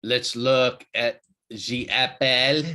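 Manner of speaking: light mock French accent, "the Apple" said as "ze Apple", slow. Host reviewing Apple chart, playful French accent. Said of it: "Why does my French accent break out".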